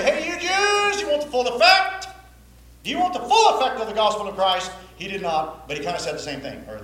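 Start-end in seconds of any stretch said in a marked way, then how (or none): 0.0-4.7 higher, louder hammed-up come-on; mock salesman pitch. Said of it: "he didn't say".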